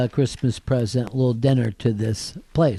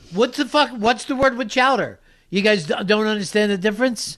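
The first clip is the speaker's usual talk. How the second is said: play-acted fed-up yelling, high, screaming; 9 semitones higher than usual. Retelling a complaint to a waiter: imitating own screaming. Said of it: "I was screaming at him".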